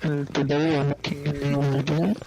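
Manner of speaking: loud, put-on British accent YouTuber greeting; mock British YouTuber intro. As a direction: ham up a fake British accent for a channel intro. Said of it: "trying to mimic British accents so badly".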